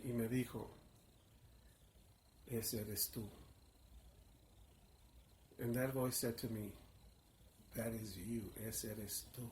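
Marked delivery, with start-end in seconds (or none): 2.5-3.3 low, soft and slow, like a voice inside; hushed inner voice. Retold or imitated. Inner voice tells the narrator who he is, hushed. 7.8-9.5 low, soft and slow, like a voice inside; hushed inner voice. Retold or imitated. Inner voice tells the narrator who he is, hushed.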